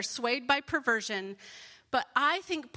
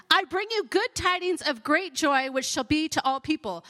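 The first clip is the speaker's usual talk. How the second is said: higher, louder scripture announcement; joyful proclamation; 4 semitones higher, 7 dB louder than usual. Acted. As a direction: proclaim the angel's glad tidings. Reads angel's announcement of joy.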